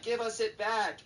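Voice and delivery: put-on high, loud mob-of-kids cry; hammed-up swarming-kid yell; mock kid demand. Horde of kids swarming the dad.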